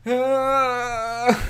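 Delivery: high loud yelp of panic; panicked scream. Real, not acted. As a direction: shriek in alarm. Fight breaks out.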